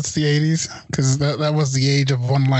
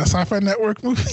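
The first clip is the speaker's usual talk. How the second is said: higher, punchier, mocking repeat; 5 semitones higher than usual. Real, not acted. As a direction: call it out with a jeering lift.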